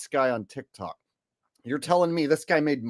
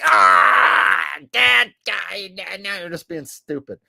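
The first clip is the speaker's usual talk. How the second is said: exasperated retort; 2 semitones higher, 5 dB louder, slower than usual. Retold or imitated. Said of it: "And I was like".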